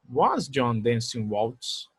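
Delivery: very slow question, rising; slow model question. Shown as a demonstration. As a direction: stretch the question for students. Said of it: "se eu quisesse fazer uma pergunta". (pergunta lenta e pausada)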